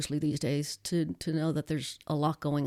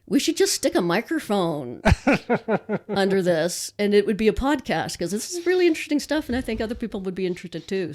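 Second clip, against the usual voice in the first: excited suggestion; 4 semitones higher, 3 dB louder than usual. Retold or imitated. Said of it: "I said".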